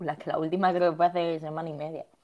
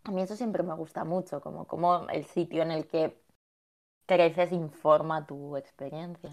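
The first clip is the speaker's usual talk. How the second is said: talking around a hard candy; candy in the mouth while speaking; sucking a hard candy. Real, not acted. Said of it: "Me metí un caramelo en la boca".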